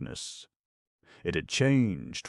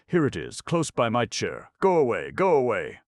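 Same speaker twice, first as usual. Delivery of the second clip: high, loud panicked shouting; terrified shout; 8 semitones higher, 8 dB louder than usual. Acted. Harvey Deacon to the beast by his chair, a panicked shout. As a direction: drive it off in terror.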